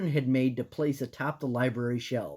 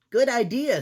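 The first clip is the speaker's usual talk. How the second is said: squeaky voice; 9 semitones higher, 7 dB louder than usual. Acted. Voicing Sam.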